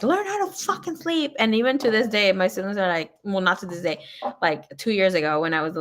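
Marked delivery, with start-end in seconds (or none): 0.0-1.3 mock scolding dad. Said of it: "he's like".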